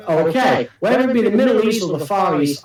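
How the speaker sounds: stifled giggles. Real, not acted. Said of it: "I'm trying not to laugh right now".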